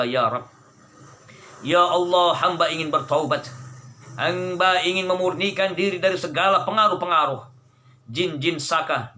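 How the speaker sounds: earnest, steady prayer to God. Real, not acted. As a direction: pray it earnestly, pleading for cleansing. Leads a ruqyah prayer.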